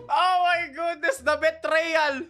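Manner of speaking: playful fake betrayal; mock dramatic outrage. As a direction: ham up the shock.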